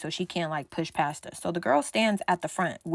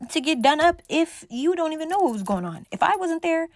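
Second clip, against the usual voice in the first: scolding; 6 semitones higher than usual. Retold or imitated. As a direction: tell off your friend, exasperated. Scolding Marquisha in retelling.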